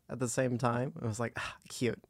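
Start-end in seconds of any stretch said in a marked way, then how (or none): 1.4-2.0 retold coo. Cooing over adorable exchange student.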